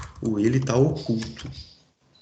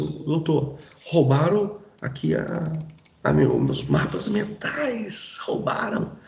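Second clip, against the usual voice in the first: complaining to police; 3 semitones higher, slower than usual. Retold or imitated. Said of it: "você chega e fala assim com a polícia".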